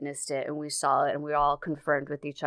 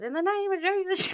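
high mock Southern accent; hammed-up high Southern accent. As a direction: imitate the possessed girl's Southern accent. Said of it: "She got this southern accent".

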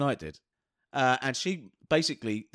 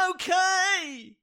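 high small okay; mock meek reply; meek girl voice. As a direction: squeak it meekly. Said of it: "And she went".

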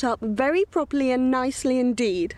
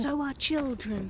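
whispered prompt; 6 dB quieter than usual. Acted. Mother whispering a line to feed him.

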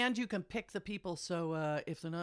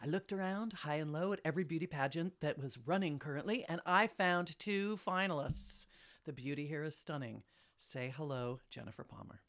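flirty teasing dating host; 3 semitones lower than usual. Pretend. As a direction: ham up the pageant hostess, drawing names out. Mock pageant host introduces finalists.

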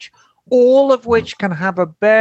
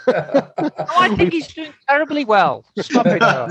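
laughing; 4 semitones higher than usual. Real, not acted. Laughing at Doug's heartbreak email.

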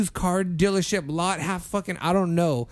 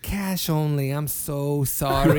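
apologetic refusal; 3 semitones lower, slower than usual. Retold or imitated. Cashier's retold refusal.

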